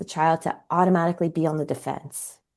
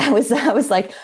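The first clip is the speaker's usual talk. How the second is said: laughing; 4 semitones higher, 6 dB louder than usual. Real, not acted. Laughing at herself retelling panic.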